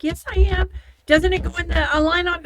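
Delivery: high, loud mock-confused insistence; playing dumb. Stringing along a scammer, high, loud and playing dumb. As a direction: feign total confusion, loudly. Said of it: "I would just play stupid".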